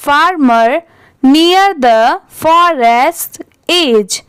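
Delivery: word-by-word read-aloud with pauses between phrases; slow model reading. Shown as a demonstration. Teacher reading the paragraph for students to repeat, slow model reading. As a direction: read very slowly and deliberately for learners to echo.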